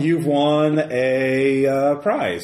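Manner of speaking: booming prize announcer. Acted. GM reads prize message.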